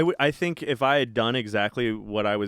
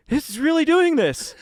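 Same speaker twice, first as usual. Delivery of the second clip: laughing disbelief; 5 dB louder than usual. Retold or imitated. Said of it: "they would be like".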